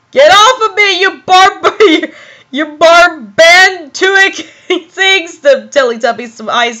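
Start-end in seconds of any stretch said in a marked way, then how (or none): 0.1-5.4 higher-pitched mock-angry protest; hammed-up scolding, breaking into laughs; indignant outburst. Reading Snape's angry dialogue aloud.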